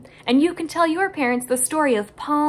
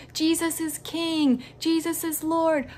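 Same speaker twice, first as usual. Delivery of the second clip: celebrating; 5 semitones higher than usual. Acted. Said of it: "they yelled, and they shouted".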